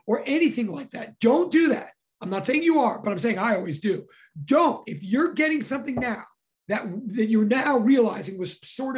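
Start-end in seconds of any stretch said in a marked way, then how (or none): 1.2-1.9 excited yelling. Real, not acted. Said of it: "If I'm yelling, it's 'cause I'm excited". 4.4-4.9 a sharp, louder one-word command; excited teacher yelling don't. Real, not acted. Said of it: "If I'm yelling, it's 'cause I'm excited".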